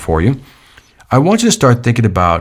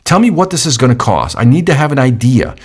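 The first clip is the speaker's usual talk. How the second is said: frustrated; 4 semitones higher than usual. Retold or imitated. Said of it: "I would be frustrated because I'm like".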